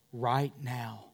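usual speaking voice

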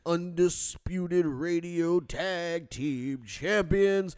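booming ringmaster announcement; big-top announcer, loud and grand. Acted. Ring announcer intro over music.

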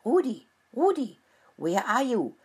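high calls searching for someone; calling out. A narrator's reading. Mice searching the chicken coop call for Rudi. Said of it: "they shouted".

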